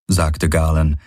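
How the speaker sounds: ordinary delivery, nothing marked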